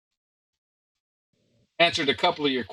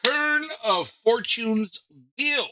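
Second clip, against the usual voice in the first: episode announcement; 10 semitones higher than usual. Real, not acted. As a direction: stretch out the show's title. Game master announces the episode title.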